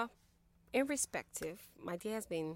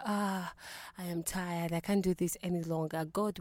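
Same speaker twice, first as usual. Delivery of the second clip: louder, pleading lament at the end of her rope; despairing outcry; 2 semitones higher, 5 dB louder than usual. Retold or imitated. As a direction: cry out to God in mock despair, louder. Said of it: "At times you want to scream".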